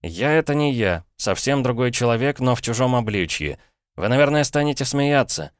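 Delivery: put-on a boy begging his uncle to hear him out; desperate boy Paul. Paul pleads with his brother-in-law, urgent boyish voice.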